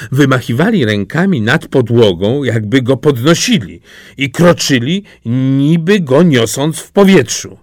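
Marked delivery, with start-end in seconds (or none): none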